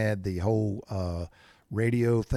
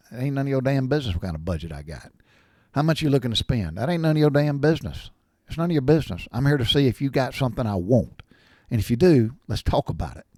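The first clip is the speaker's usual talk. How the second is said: blunt brush-off; 4 semitones higher, 4 dB louder than usual. Retold or imitated. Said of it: "And I say it just like that".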